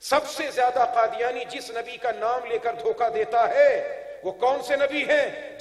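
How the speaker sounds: forceful preaching voice; sermon. Real, not acted. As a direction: put the question to the congregation with force. Preaches to a crowd.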